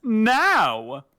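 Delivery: high yelled order; yelled command. A narrator's reading. Omnius firing magic at the shield, yelling. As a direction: yell it out as one long word. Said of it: "Omnius yelled out".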